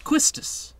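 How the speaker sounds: "Quistis" with a KW start; alternative pronunciation. Shown as a demonstration. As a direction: say "Quistis" as KWIS-tis. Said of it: "not sure how to pronounce it".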